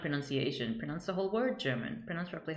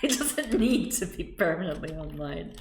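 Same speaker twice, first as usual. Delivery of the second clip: laughing repeat. Real, not acted.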